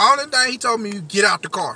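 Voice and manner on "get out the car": put-on nasty, rude tone. Retelling what the police officer said when stopping: imitating a nasty attitude. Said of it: "he said it just like that with a nasty attitude".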